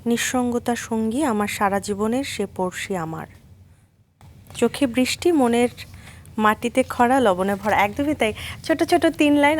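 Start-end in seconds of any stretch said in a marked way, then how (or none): 0.1-7.8 a lightly raised, measured poetry reading; slightly lifted recital voice, pausing between lines; poem recital. Acted. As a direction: read it out like a poem for an audience. Host reads poem from book.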